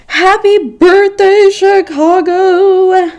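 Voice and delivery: loud, high, drawn-out cheer; excited shout. Real, not acted. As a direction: cheer it out joyfully. Celebrating city's birthday.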